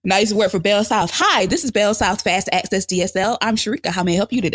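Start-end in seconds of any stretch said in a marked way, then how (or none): 1.1-4.5 call center voice. Retold or imitated. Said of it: "my voice I used to use when I worked at the call center".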